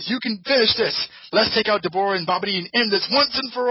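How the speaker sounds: high, loud triumphant crowing; hammed-up triumphant boasting; gleeful Kaioshin. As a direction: gloat with rising glee. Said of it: "Kaioshin starts laughing and says".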